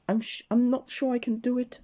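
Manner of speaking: high, nervous stammer; a small scared voice, lifted high; trembling. Acted. Miss Fun at the zip wire, trembling and high. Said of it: "she trembled".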